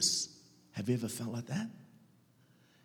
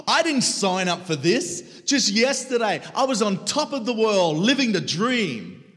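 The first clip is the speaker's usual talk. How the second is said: stunned disbelief; 11 semitones higher, 11 dB louder than usual. Retold or imitated. Despair at sudden ruin.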